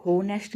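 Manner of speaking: होनेस्ट with an audible h at the start; voiced H in होनेस्ट. Shown as a demonstration. Teacher showing students the mistaken reading, होनेस्ट with sounded h. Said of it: "इसको होनेस्ट नहीं बोला जाता".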